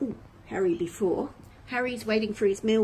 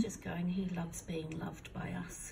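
whisper; 11 dB quieter than usual. Real, not acted. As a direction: whisper so as not to disturb him. Whispering near the baby.

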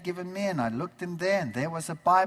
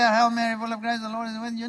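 rattled-off prayer; 3 semitones higher, faster than usual. Shown as a demonstration. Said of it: "I can say it very fast".

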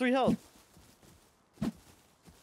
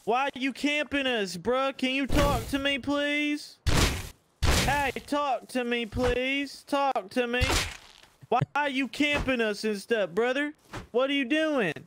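high friendly put-on voice; 8 semitones higher than usual. To the enemy raider camping their door, a high mock-innocent plea. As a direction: pitch way up, mock-innocent and pleading.

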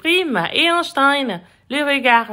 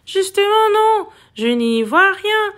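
higher-pitched irritated retort; grumbling; 5 semitones higher than usual. A narrator's reading. Goldfish complaining about murky water, grumbling. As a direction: complain crossly, starting high. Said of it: "Peste à Gaufrette".

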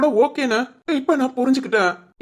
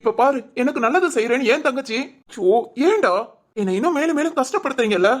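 higher, anguished reproach at a friend; upset scolding; 4 semitones higher than usual. Acted. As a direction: cry out in frustration at him. Scolds friend for telling sister. (கோபமும் வேதனையுமான திட்டல்)

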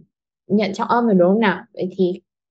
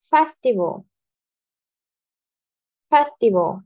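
"Festival" with a strong first syllable, falling after; first-syllable stress; 3 semitones higher than usual. Shown as a demonstration. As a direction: hit "Fes", let "tival" drop away. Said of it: "sẽ rất là mạnh hơn".

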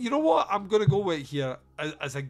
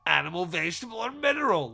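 mock petulant child, mineral pitched higher; 3 semitones higher than usual. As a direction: whine it like a sulky kid. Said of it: "Like a petulant child".

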